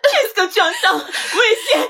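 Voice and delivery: fake panic. Mother phoning Pascal to lure him home, hammed-up fake panic. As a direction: play the frantic mother badly, fighting back giggles.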